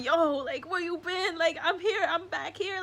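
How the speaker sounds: put-on high, loud greeting of an old friend; voicing the tree. The tree speaking to her as an old friend, high and loud. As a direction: greet them like a long-lost buddy.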